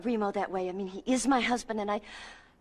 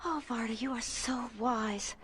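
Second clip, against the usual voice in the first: gushing; 2 semitones higher, 5 dB quieter, slower than usual. Acted. Gushing at her mentor.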